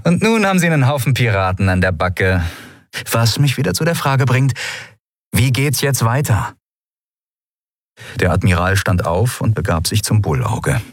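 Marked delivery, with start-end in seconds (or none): 0.0-6.6 higher, fast needling question; Sephiron, mocking. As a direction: poke at the admiral with a rising jab.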